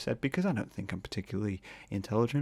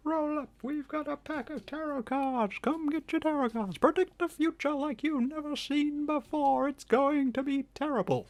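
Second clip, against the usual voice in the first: market stall barker. Pretend. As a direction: sell the tarot cards like a fairground barker. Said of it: "I became really Bring and Bile Sale".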